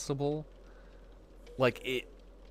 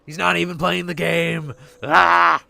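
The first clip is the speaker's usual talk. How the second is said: high, loud, exasperated mock complaint; annoyed viewer; 7 semitones higher, 12 dB louder than usual. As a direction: whine like a fed-up viewer. Imitating annoyed viewer, then outburst.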